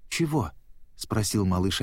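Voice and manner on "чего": high, startled little question; a child caught off guard, pitched up; taken aback. A narrator's reading. Nemo is startled by Dori's outburst, taken aback. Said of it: "опешив".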